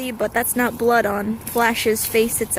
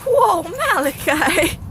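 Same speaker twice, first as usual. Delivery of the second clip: drawn-out whoa, louder and higher; calling out; 6 semitones higher, 5 dB louder, much slower than usual. Real, not acted. Owner calls out to her wrestling dog, drawn out and loud. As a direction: call the dog's name slowly across the yard.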